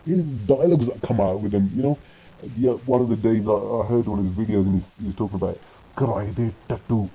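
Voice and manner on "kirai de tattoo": Kirai de tattoo als dramatische Hindi-filmregel nagedaan; mock film dialogue. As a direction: declameer Kirai de tattoo spottend als een filmheld. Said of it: "that's a, like a Hindi dialogue".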